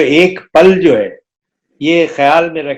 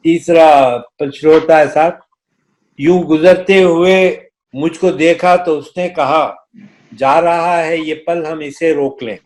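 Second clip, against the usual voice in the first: stately nazm recitation. Acted. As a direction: recite the poem with gravity.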